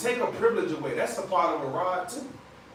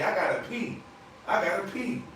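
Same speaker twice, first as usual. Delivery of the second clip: put-on higher-pitched, eager little boy asking for the bathroom; little son; 4 semitones higher than usual. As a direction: play the urgent toddler, lightly voiced. Voicing his young son.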